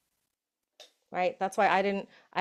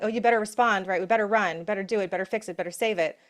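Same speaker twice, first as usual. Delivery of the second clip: mock panicky lizard brain; 3 dB louder, faster than usual. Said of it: "lizard brain going".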